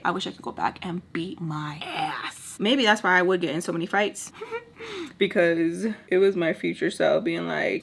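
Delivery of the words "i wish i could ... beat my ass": soft whispered aside. Real, not acted. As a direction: confide it under breath. Whispered confession.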